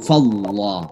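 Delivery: Fallah with a heavy, deep dark l; heavy Allah. Shown as a demonstration. Teacher showing the heavy pronunciation of Allah. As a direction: say the l of Fallah thick and full. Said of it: "dibaca tebal".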